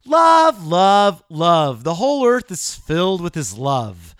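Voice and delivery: hammed-up proclamation; mock shout. Shown as a demonstration. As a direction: cry out love three times, dropping each time. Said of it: "spoken like this".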